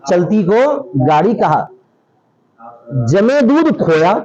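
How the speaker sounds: slow, measured verse recitation. Retold or imitated. Teacher quoting a verse that mocks Urdu to students, slow recitation. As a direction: recite the line slowly, word by word.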